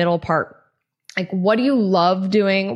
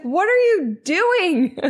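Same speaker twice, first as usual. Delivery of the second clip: much higher, slow, half laughing; amused friend; 10 semitones higher, slower than usual. Retold or imitated. Friend watching her touch bird poop, laughing. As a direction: ask it while cracking up.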